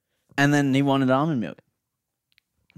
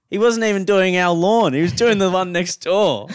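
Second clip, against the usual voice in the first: higher, louder, incredulous punchline; indignant outburst; 7 semitones higher, 5 dB louder than usual. Real, not acted. Storyteller revealing gardener worked next door, loud indignant disbelief. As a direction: blurt out the outrage at being duped.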